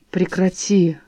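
ordinary delivery, nothing marked

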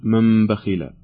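"من بخل" said as "مم بخل", the nun becoming a nasal m before the ba; nun turned to mim, iqlab. Shown as a demonstration. Quiz host showing a caller the nun changed to mim. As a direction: turn the n of "من" into a humming m in "من بخل". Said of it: "أو نقلبها ميما فنقول".

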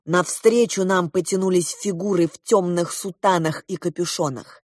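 plain reading voice

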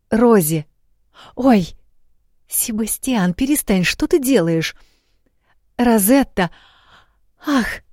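high, breathless flustered cries. A narrator's reading. Gabriela tries to talk to Rosie while flustered. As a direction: keep losing the thread, startled.

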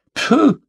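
high scornful "pfoo" snort; contemptuous snort. A narrator's reading. McLeod dismisses talk of justice, scornful snort. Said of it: "фыркнул Маклеод".

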